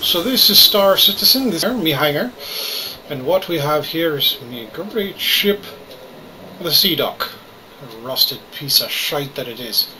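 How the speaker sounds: put-on Irish brogue throughout; hammy Irish accent. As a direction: play it as a cheeky Irishman. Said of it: "today I'm playing Star Citizen with an Irish accent".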